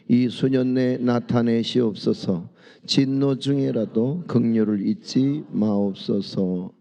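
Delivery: loud, measured scripture reading. Acted. Pastor leading the congregation in reading, loud and measured. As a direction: read the verse aloud together like a congregation.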